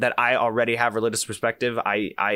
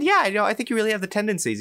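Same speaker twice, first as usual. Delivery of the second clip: imitating the recruiter; 10 semitones higher, faster than usual. Retelling recruiter Alice again.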